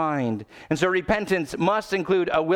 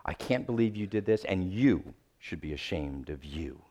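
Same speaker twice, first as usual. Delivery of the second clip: low, soft shaming parent; lightly voiced scolding parent; disappointed parent; 8 semitones lower, 7 dB quieter than usual. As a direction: scold quietly, letting it sink. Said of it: "Maybe you got a parent who did this".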